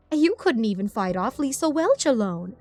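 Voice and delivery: high, swooping mockery; sneering villain, rising in pitch; taunting villain. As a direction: jeer at their weakness.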